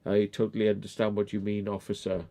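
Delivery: soft, mock-polite compliance; quiet sarcastic yes-officer; sarcastic agreement. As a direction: humour the officer with mock patience. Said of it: "I was like".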